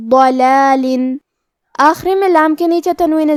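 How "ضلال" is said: ضلال۔ with a heavy, full-mouthed ض. Shown as a demonstration. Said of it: "بھاری آواز میں اور منہ پھلا کے پڑھیں گے". (ضاد بھاری آواز میں، منہ پھلا کے)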